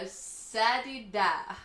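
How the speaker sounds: Sadida, slow and deliberate; slow mock rebrand Sadida; joke pronunciation. Shown as a demonstration. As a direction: say Sadida slowly, like a brand. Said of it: "top five ways to say Adidas".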